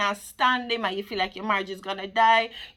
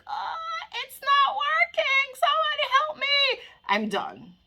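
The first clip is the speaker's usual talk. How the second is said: mock despair. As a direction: whimper it like you're at the end of your rope. Acting out giving up.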